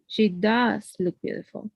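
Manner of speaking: DOES held long before "look beautiful"; stress on DOES. Shown as a demonstration. Teacher repeating the emphatic example, stress on does. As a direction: draw out does to insist. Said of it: "So I'm emphasizing how beautiful she is".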